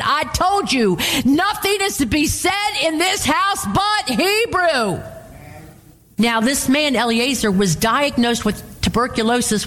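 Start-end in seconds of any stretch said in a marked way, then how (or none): 0.0-5.0 high-pitched mock scolding from the pulpit; retold scolding. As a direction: scold sternly, as if quoting an exasperated husband. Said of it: "He scolded her and said".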